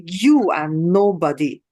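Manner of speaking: slow, mock snooty put-down; a hint of a catty schoolgirl; catty boast. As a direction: look down on her, slowly. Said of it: "it's a very catty".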